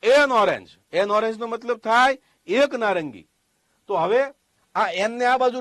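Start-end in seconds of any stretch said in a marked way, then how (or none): 0.0-0.7 એન hit louder, held apart from ઓરેન્જ; stress on એન. Shown as a demonstration. Teacher adding the article before the noun, stress on એન. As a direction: punch the article એન, then ઓરેન્જ falls. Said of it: "આગળ article લગાડાય એ".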